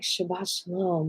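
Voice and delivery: soft, gentle wish of peace; peaceful greeting. Shown as a demonstration. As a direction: say it softly, as a peaceful blessing. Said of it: "like, this peaceful thing".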